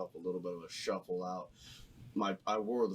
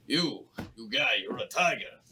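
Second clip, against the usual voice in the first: self pep talk; 6 dB louder than usual. Pretend. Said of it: "I'm like".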